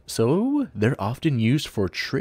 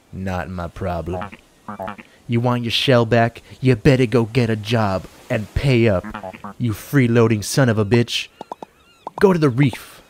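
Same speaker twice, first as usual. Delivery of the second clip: loud angry boss; 4 dB louder than usual. Acted. Loan shark yelling.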